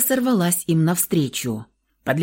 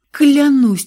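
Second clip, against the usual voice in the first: high, loud sudden vow; eager oath; 8 semitones higher, 9 dB louder than usual. A narrator's reading. Sister eagerly swears to brother to stay put.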